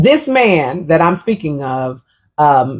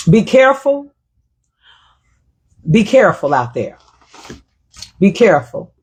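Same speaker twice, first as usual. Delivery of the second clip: imitating mama. Retelling mama's advice, a hint of her voice. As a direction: sigh and warn like a mother. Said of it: "my mama also used to say".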